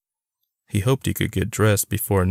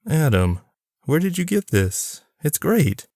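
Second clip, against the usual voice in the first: dad's voice; 8 semitones higher than usual. A narrator's reading. Dad voiced in story.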